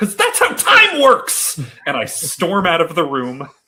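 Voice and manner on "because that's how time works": very high, very loud, shrill top-of-the-lungs scream. Retelling answering her question about the game clock, retelling a top-of-lungs shout. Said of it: "at the top of my lungs".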